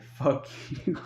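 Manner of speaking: voiceless, whispered mouthing with a laugh; mouthed words. Retold or imitated. Brother mouthing an insult at the watching cops, mouthed. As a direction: imitate silently worded swearing, barely voiced. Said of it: "he didn't say it".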